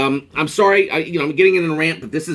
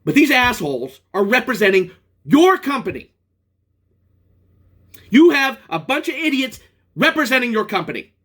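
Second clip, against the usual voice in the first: angry rant; 5 semitones higher than usual. Real, not acted. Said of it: "I'm sorry I got angry".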